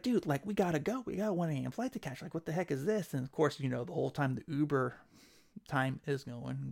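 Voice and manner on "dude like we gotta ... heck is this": higher, impatient push; exasperated urging. Retold or imitated. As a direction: hurry the driver along, fed up. Retold urging the delayed driver.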